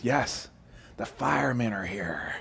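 put-on hushed little kid whisper; a child whispering into the phone; small child whispering. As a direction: whisper like a scared four-year-old. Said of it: "the whispering voice says".

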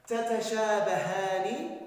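تتشابهان said slowly, each syllable spelled out; slow stressed conclusion. Shown as a demonstration. Teacher to pupils, stating the rule slowly. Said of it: "teacher stresses conclusion".

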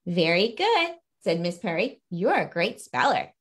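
storybook read-aloud, lively; reading to children. Acted. Author reading her picture book to viewers, storybook voice. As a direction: read the class scene to young listeners.

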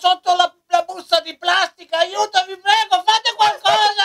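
high, pleading cry for help; desperate trapped little creature; squeaky shrill puppet voice. Acted. Trapped under plastic bag, pleading.

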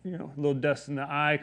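quiet, offhand mock cover for tears; playing it cool. Man hiding that he cries, playing it cool. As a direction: brush it off softly, imitating nonchalance. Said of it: "I try to be cool".

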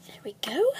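There we go whispered; whispering. Acted. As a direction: breathe There we go under breath. Whispered while mixing potion.

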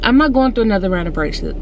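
slushy sh for s; talking through a retainer; retainer lisp. Real, not acted. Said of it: "I sound like a five-year-old".

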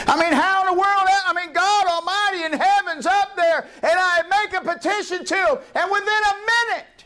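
high laughing disbelief, voice breaking up; laughing in awe at God; laughing amazement. Real, not acted. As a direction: marvel through real laughter. Preacher marvels, laughing at answered prayer.

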